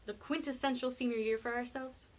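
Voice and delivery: high, hopeful pitch on the big idea; eager. A narrator's reading. Penny pitches the perfect senior year, eager. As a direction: present it like a grand plan.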